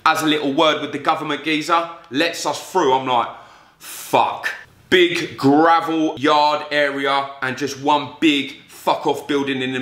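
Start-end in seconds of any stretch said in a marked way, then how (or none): 3.8-4.5 breathy whispered swear; hushed, scared whisper; whispered curse. Retold or imitated. Scared, arriving at the gates.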